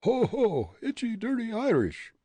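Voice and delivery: very high taunting character voice; high mocking ho-ho jeer; different thrown voice. A narrator's reading. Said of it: "caused a different voice to say".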